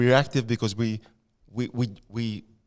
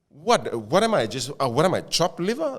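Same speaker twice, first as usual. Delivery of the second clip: mock indignation. Reacting to Biden's remark with mock indignant outrage. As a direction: play up being offended.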